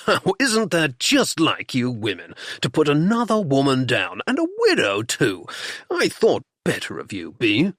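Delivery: a touch of husbandly indignation; mildly offended reproach; indignant. Acted. Husband rebukes his wife for belittling a widow, mildly indignant. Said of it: "was immediately indignant".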